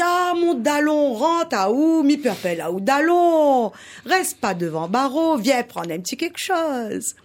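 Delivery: voix du rat, plus haute, lente et engageante; rat accueillant. Acted. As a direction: accueille ton ami à bras ouverts. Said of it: "Le rat, tout de suite". (le rat invite le cochon, voix haute et chaleureuse)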